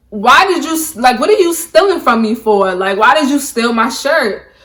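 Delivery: replaying her own angry demand, somewhat loud; retold accusation. Confronting friend about stolen shirt.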